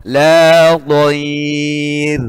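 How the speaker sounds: La dhair held out at a pause; held thin r. Shown as a demonstration. Teacher demonstrating the paused r in La dhair. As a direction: hold La dhair with a light r. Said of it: "Iya, ditahan".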